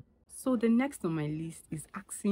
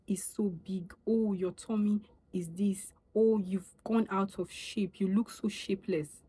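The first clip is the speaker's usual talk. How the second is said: mocking gossip; 3 semitones higher than usual. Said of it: "what's the point of you saying".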